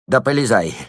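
building to a very high, loud yell. A narrator's reading. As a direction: bawl at the peasants. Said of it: "вопил он".

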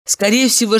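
usual speaking voice

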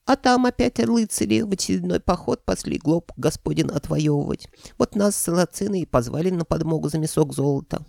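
high-pitched creature voice; falsetto dragon head. A narrator's reading. Dragon head explaining its campaign to the hero, falsetto. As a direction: tell it in a piping falsetto.

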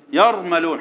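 "يرملون" as yarmaloon with a thick dark r; heavy r. Shown as a demonstration. Teacher repeating the right form, "يرملون" with heavy r. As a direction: make the whole of "يرملون" heavy. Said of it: "حتى تفخم الكلمة كمان".

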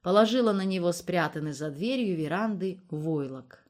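ordinary delivery

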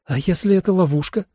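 high-pitched worried question; doubtful. Acted. Holly fears a trap, doubtful and high. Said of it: "усомнилась Холли".

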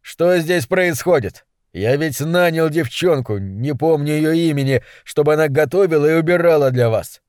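suddenly angry. Acted. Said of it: "Я вдруг очень рассердился".

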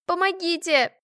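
cry for help. Acted. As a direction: scream for help in panic. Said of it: "закричала я". (крик о помощи)

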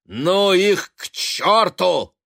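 high, loud, slow scornful jeer. A narrator's reading. Son jeering at his mother, slow scornful jeer. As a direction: drag it out with open contempt. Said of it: "со злобным смехом".

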